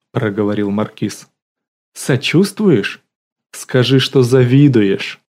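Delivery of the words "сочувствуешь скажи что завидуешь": slow teasing. Acted. Lola teasing Leonya on phone.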